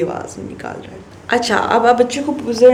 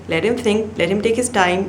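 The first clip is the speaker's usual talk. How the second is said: slow advice; 2 semitones higher, much slower than usual. Shown as a demonstration.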